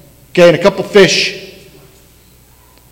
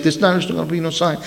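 softer and fast, brushing it off; tossed-off, tired refusal; a sighing brush-off; weary dismissal; 10 dB quieter, much faster than usual. Retold or imitated. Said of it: "He sighs deeply. He's like".

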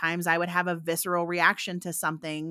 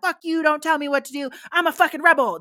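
higher mock defiant snap; mock rebel; 8 semitones higher, 4 dB louder than usual. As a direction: play the kneejerk rebel. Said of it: "knee-jerk reaction of".

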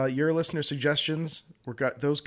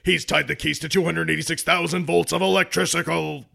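monster truck ad; 2 semitones higher, 5 dB louder than usual. Acted. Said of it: "Let me try it again".

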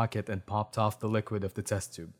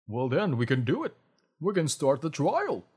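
excited; 5 semitones higher than usual. A narrator's reading. Doctor delighted by perfect samples.

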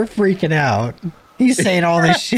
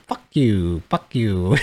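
lightly imitated gecko call, lower pitch; gecko call imitation; 4 semitones lower, slower than usual. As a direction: mimic a gecko that seems to curse. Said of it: "They sound like that".

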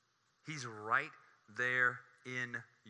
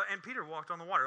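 casual, no-big-deal recital; understated; 4 semitones higher, faster than usual. Retold or imitated. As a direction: mimic a matter-of-fact understatement. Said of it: "Matthew being an understatement again".

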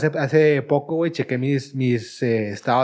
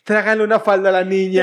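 mocking boss; 4 semitones higher, 4 dB louder than usual. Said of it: "así como que".

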